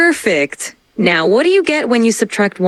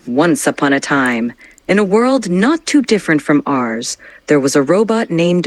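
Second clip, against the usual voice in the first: dramatic storytelling; 6 semitones lower than usual. Shown as a demonstration. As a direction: add drama to the bedtime story. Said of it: "Let's add some drama".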